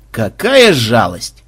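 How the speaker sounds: slow, low, drawn-out sigh; sighing regret. A narrator's reading. Banzai hears the chest is empty, sighing regret. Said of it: "вздохнул Банзай".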